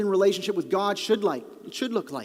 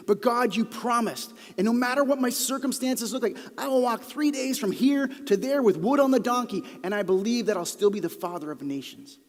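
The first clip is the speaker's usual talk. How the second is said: declaration of faith; 4 semitones higher than usual. Shown as a demonstration. Preacher declaring faith in God's promise. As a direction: proclaim it with full faith. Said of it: "say it as a declaration of faith".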